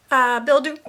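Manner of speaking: talking through hiccups; hiccuping between words. Real, not acted. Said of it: "oh, sorry, I have the hiccups".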